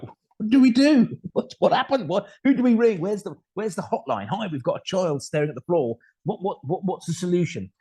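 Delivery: high, breathless mock-despair at the situation; mock panic. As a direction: squeak it out like helpless parents at a loss. Silent panicking parents, eye-rolling.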